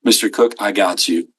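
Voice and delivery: speaking for the facility, clear and confident; confident ownership. Shown as a demonstration. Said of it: "you are the facility".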